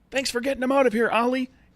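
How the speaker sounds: very high, loud, shouted yell. Voicing a character who yells thanks back as things wind down: yelling back. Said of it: "Tommy yells back".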